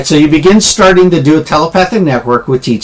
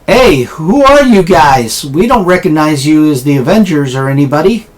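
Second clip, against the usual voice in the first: wary challenge; 2 semitones higher than usual. Acted. Bystander asks the unknown heroes who they are, wary challenge.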